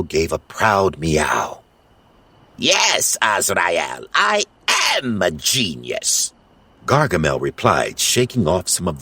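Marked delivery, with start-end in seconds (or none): 2.6-6.3 gloating. Acted. Gargamel gloating.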